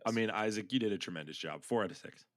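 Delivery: lightly put-on deadpan critic; low-pitched, understated mock verdict; Mark. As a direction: lightly imitate a grudging movie reviewer. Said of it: "that was my impression of Mark".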